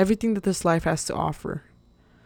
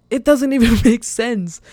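laughing disbelief; 5 semitones higher, 7 dB louder than usual. Real, not acted.

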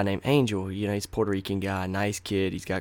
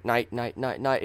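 SpongeBob quote; 3 semitones higher than usual. Retold or imitated. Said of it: "like the SpongeBob quote".

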